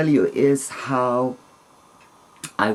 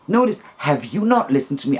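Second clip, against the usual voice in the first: quick, indignant comeback; mildly angry retort, hurried; retold annoyance; faster than usual. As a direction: snap back, a touch offended. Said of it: "I got really angry".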